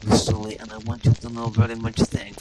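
hammed-up seductive British voice; sultry Lara Croft parody. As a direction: purr it like a vamping game heroine.

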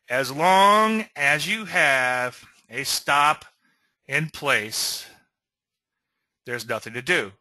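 slow, "As long as you have a stop" drawn out, pauses before "in place" and "there's nothing to do"; emphatic repeat. Shown as a demonstration. Coach repeating the key rule to traders, slow and emphatic. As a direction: spell it out slowly in separate phrases, "stop", "in place", "nothing to do". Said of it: "let me repeat that".

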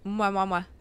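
three smacking air kisses. Real, not acted. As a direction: blow several kisses. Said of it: "Or your good morning kiss".

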